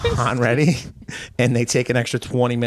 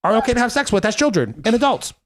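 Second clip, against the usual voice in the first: Jordan Peterson impression; 5 semitones higher than usual. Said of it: "I just went into, like, a little Jordan Peterson".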